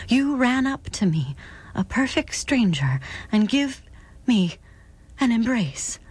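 a hint of a polite young girl. Young girl's voice in story.

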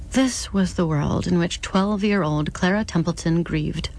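steady, measured audiobook reading; story narration. A narrator's reading. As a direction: lay out the grim scene evenly for the listener. Reads novel prologue aloud.

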